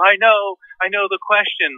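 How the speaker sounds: high-pitched tearful widow imitation; mock crying. Crying older lady finally asking her question, mock tearful. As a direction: put on a weepy, high voice. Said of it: "she's crying through this crumpled tissue".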